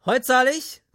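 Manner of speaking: very high, loud call across the bar. Acted. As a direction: shout it over to the barman. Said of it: "rief ich zu Ernest hinüber".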